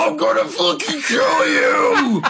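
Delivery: high, slow, crying shout; sudden screaming. Retold or imitated. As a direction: burst into a wild yell. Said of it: "and it's suddenly".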